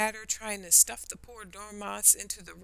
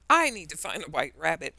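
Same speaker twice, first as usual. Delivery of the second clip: angry; 7 dB louder than usual. Acted. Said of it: "she thought angrily".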